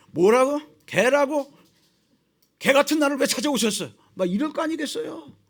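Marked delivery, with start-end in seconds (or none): 0.1-3.9 louder, pretend-offended protest; mock indignant outburst. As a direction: bristle at the insult, a touch hammed up. Moses indignant at being called dog. (개라고 불린 모세가 발끈하는 과장된 항의)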